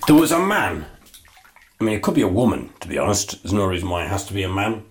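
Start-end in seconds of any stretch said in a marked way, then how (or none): 0.1-0.9 joke telling opener. Shown as a demonstration. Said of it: "So here we go".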